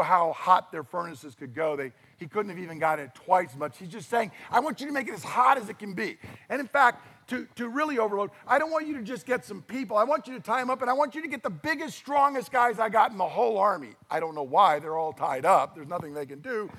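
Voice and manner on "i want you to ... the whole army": fast, raised commands of a raging king; mock furious king. Preacher voicing the furious king ordering the furnace hotter, fast and raised. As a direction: bark it out like a hot-tempered tyrant.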